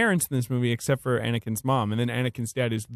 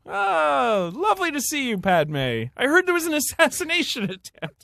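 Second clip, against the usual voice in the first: high, sing-song fussing parent voice; posh cooing parents; 12 semitones higher than usual. Retold or imitated. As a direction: gush over her like doting parents. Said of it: "they're like".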